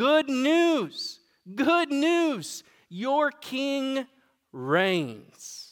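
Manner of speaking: very slow, high, drawn-out, announcer-style scream. Retelling a vision where a messenger runs toward the city: imitating a messenger screaming. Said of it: "is screaming this".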